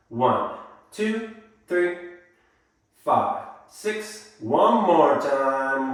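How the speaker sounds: counting beats in time, pitch jumping; sing-song counting of the steps; rhythmic dance count. Shown as a demonstration. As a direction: call the beats for the class.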